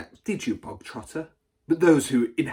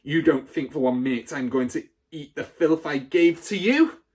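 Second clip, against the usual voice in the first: loud, high, outraged accusation; furious rant; 4 semitones higher, 6 dB louder than usual. A narrator's reading. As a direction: rant at the boy before the school. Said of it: "the Trunchbull shouted".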